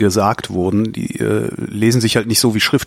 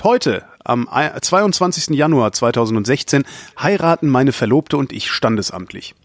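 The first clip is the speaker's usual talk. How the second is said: lively, projected read-out voice; reading listener mail aloud; 2 semitones higher than usual. Acted. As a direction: present the listener's question to the audience. Reads out listener message.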